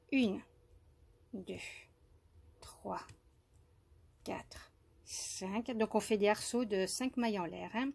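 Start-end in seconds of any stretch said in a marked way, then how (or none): 0.1-5.7 soft whispered counting, much softer; murmured stitch count, much softer; counting under breath. Real, not acted. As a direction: whisper the count to yourself while working.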